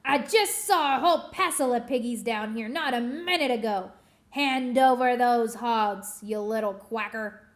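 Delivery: bully the duck; angry witch demand. Acted.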